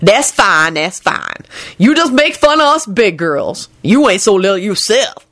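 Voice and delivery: huffy retort, rising high; offended servant. A narrator's reading. Lucretia stung by a jibe about size, offended. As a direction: huff back in a character voice.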